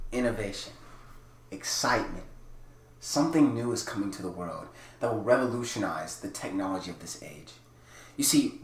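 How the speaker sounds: a hint of a grand product pitch; half-serious Apple-style launch voice; lightly voiced tech presenter. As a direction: pitch the gadget like a keynote. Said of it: "let me get into character".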